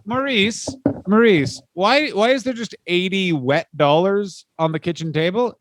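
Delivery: wife finding wet dollars on the table; mock exasperated wife. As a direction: call out to him, baffled at the mess. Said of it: "you're like".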